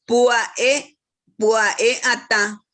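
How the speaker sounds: "pua e ata" with the "e" set apart and stressed; careful "pua e", then the whole "pua e ata"; stressed vowel. Shown as a demonstration. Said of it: "en donde se cargó la voz".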